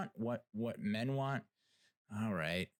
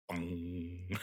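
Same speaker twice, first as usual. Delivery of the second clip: imitated bell bong; 2 semitones lower than usual. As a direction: ring it like a boxing bell. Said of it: "you hear the bell".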